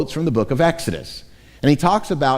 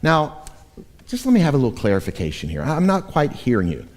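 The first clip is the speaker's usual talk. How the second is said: polite clarification; faster than usual. Shown as a demonstration. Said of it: "not a tone of voice where it's like".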